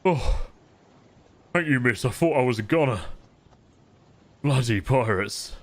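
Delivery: lightly voiced, weary grateful sailor; a hint of someone just brought round; wounded deckhand. Game master voices revived wounded deckhand.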